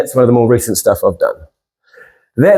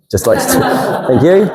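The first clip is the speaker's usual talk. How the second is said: laughing. Real, not acted. Laughs at own boast.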